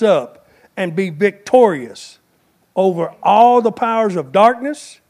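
rising sermon preaching; booming motivational speech. Acted. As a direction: build the sermon to a climax. Preaching builds to climax.

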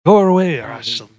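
French taunter. Retold or imitated. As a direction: shout down from the castle walls. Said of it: "it was the French castle".

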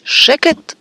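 abrupt high-pitched outburst; shout. A narrator's reading. Uncle silencing the arguing boy, high shout. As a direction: cut him off with a yell. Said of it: "צעק הדוד ורנון".

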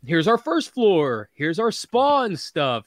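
slow, lightly voiced store tour. Comic shop ad showing off its floors, slow lightly put-on presenting. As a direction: present each section slowly, a hint of showman. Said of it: "I would always see their ads".

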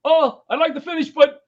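high, loud rushed excuse; eager excuse. Retold or imitated. Firefighter bailing on a dead crowd, high and loud. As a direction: bolt for the door with relief. Excuse to leave for fire alarm.

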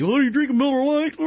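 lightly voiced mocking drinker; a hint of a teasing buddy; mock critic. Critic teasing the host about his beer, lightly mocking. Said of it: "they probably say that about me".

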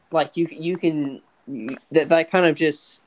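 halting, repeating words; stuttering. Real, not acted. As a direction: stumble over the words, restarting. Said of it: "I know I'm stuttering here".

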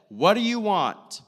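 loud, high challenge; hammed-up loud, high question; mock demanding. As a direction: fire it out as a loud, exaggerated demand. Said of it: "That's just how I, like, interpret".

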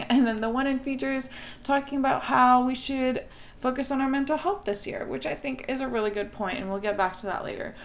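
upbeat TV commentator delivery. Real, not acted. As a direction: talk like a TV presenter. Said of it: "I'm talking like a T V commentator right now".

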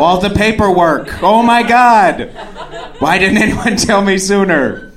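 drawn-out words building high and loud into fake revelation; mock outburst. Divorced man in his head answers his date, mock outburst. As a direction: climb into sarcastic, exaggerated astonishment. Sarcastic inner outburst at date's lecture.

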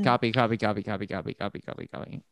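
starts plain, fades down to a whisper; fading to a whisper. Real, not acted. Conceding to his friend, fading into a whisper. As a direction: let each copy die away to breath.

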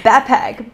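'backpack' said ba-pack, drawn out; dropped k. Shown as a demonstration. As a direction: leave the first k out of 'backpack'. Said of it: "B A P A C K".

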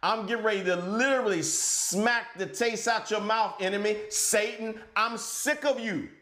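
exasperated telling-off, voice lifted; frustrated anger. Shown as a demonstration. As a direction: tell off an enemy you are sick of. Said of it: "say it with some frustration".

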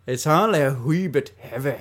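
a poor mock Scottish accent; playing at a Scottish accent badly. Friend retries the line in a bad Scottish accent. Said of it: "really bad Scottish accents".

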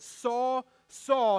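loud call, rising in force on the repeat; calling to get attention. Retold or imitated. Jesus calls out to Saul on the road, loud call. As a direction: call him to stop him in his tracks. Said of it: "trying to get his attention".

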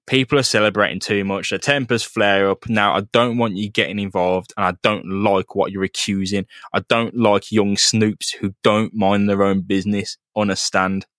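mildly menacing warning, pitched slightly down; threatening. Acted. Police captain warns a young snoop off, mildly threatening. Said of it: "it's a bit threatening".

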